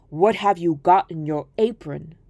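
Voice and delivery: low, sly wolf voice greeting his prey; a wolf sizing up a child. Acted. Wolf questions girl.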